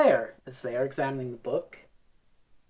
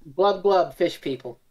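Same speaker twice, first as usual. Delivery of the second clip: gurgling fish man croak. Pretend. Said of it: "we're in the water now".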